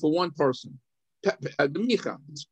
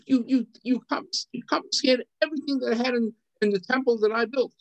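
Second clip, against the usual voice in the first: upset lament; 6 semitones higher than usual. Retold or imitated. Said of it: "he got a little upset".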